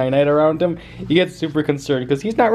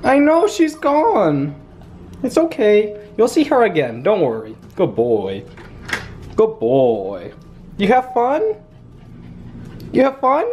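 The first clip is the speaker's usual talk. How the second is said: soothing pet talk; 4 semitones higher, slower than usual. Real, not acted. Comforting puppy after guest left.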